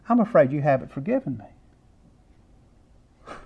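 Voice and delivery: put-on slow, soft little girl's fearful plea; a hint of a scared child, slow and soft; tearful child. Child crying in her room.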